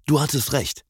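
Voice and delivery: cheerful, high-pitched call; fröhlich rufen. A narrator's reading. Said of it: "rief er fröhlich". (fröhlich und hoch gerufen)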